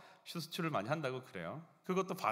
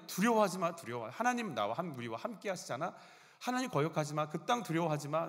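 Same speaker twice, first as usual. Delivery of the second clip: Joshua crying out; 2 semitones higher than usual. Retold or imitated. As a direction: call it out to the whole people. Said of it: "계속 외치고 있어요".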